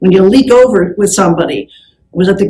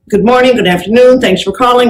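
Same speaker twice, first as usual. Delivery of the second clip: phone greeting demo. Shown as a demonstration. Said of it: "So you want to say".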